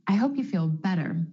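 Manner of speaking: "better" with the T flapped like a quick D. Shown as a demonstration. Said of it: "The flap T is really just a D sound".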